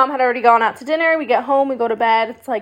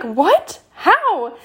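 shocked friends; 8 semitones higher than usual. Retold or imitated. Friends shocked, she explains.

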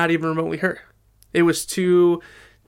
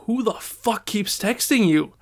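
higher, slow annoyed demand; mock exasperated parent, words drawn out; annoyed dad; 5 semitones higher, slower than usual. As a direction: imitate an irritated father. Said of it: "He started getting annoyed".

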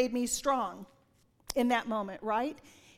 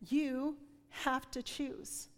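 slow divine voice; 7 dB quieter, much slower than usual. Retold or imitated. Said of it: "spoken two different rhythms".

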